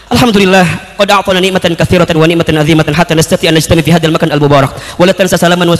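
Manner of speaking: low, rapid formal Arabic oratory; Arabic speech. Retold or imitated. Candidate showing off his Arabic to the interviewer, fluent Arabic. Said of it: "bahasa Arab".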